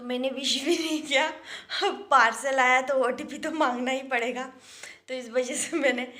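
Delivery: rueful laugh through the words; laughing while talking. Real, not acted. Wife telling viewers about the fight, laughing. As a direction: laugh it off while telling of the husband's unanswered calls. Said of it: "मैं आप लोगों के सामने हंस के बोल रही हूँ".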